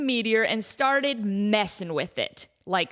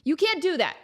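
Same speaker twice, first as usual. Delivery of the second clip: whispered protest; 5 semitones higher than usual. Acted. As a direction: hiss it back under the breath. Protesting after whispered news.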